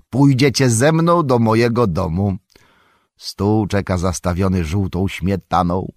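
emphatic storyteller's jolly host; jovial Tom Bombadil. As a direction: invite them home with gusto.

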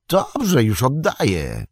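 startled, high-pitched assent; agree, taken aback, voice jumping high then falling; somewhat surprised. A narrator's reading. Sam gives up the Ring on demand, somewhat surprised. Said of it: "odparł Sam trochę zaskoczony".

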